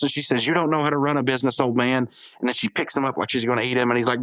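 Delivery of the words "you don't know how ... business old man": loud, fast comeback; mock angry retort. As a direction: bark it back at the old man. Susan snaps back at Mailer.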